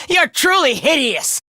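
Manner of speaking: laugh, then taunt; gleeful scorn led by a laugh; mocking laugh. Fighter taunting a hideous enemy, mocking laughter.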